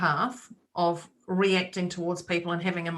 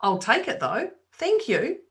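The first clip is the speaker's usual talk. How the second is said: higher, brighter oh, louder at first; cheery thank you; 5 semitones higher, 3 dB louder, slower than usual. Retold or imitated. Answering the veggie shop lady with a high, bright thank you. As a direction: take the insult as a gift, beaming. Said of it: "And I went".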